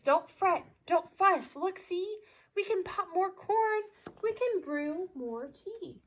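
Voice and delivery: a hint of a squeaky mouse, lightly voiced; little mouse. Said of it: "Mouse squeaks".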